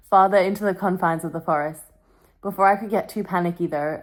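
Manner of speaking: reading a novel aloud in a storytelling voice. Acted. Vlogger reading Twilight aloud to her camera, storytelling.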